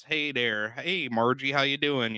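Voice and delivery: light imitation of the Fargo accent. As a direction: toss off a Fargo-accent greeting. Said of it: "the snow and the accents".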